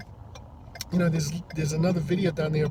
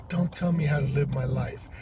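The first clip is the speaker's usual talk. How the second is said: imitated deadpan retort, no inflection. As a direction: say it without any expression in the tone. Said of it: "it's like no inflection on her tone".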